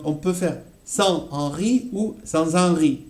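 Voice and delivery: sans Henri linked as san-z-Henri then plain; liaison demo. Shown as a demonstration. Teacher contrasts two ways to say sans Henri. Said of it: "Ici, donc".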